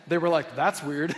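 laughing through a mock puzzled remark; half-laughed, bemused quote. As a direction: chuckle it out, amused and bemused. Parents puzzled, laughing retelling.

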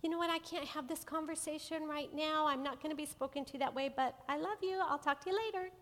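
calm, loving. Shown as a demonstration. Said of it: "That might mean".

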